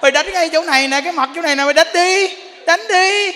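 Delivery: wife goading husband to hit her; defiant wife. Retold or imitated. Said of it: "cái tức nữa".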